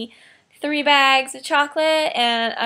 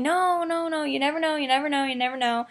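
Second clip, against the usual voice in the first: insistent reassurance; 3 semitones higher than usual. Retold or imitated. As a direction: imitate a friend brushing off doubts. Retelling coworker's insistent reassurance.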